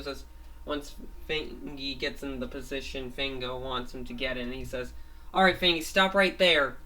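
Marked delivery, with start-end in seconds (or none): 5.3-6.8 loud, raised call to halt; shouted command. Acted. Fango stops Fangy by the tree, shouted command. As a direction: call it out firmly, higher and much louder.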